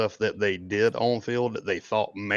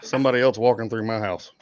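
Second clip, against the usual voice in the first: laughing. Real, not acted. Laughs while naming the culprit.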